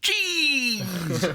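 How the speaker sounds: high startled jeez; surprised. Retold or imitated. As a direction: blurt it out startled. After mock pain yelps.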